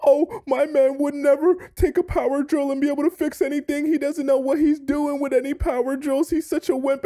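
a lightly voiced taunting girlfriend, high pitched; the boyfriend parodying her jokes; mock mocking girlfriend. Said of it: "You're talking about".

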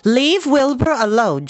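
high, loud, slow scolding; sharp rebuke. A narrator's reading. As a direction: snap it out, drawing each word. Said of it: "She spoke sharply to the lamb".

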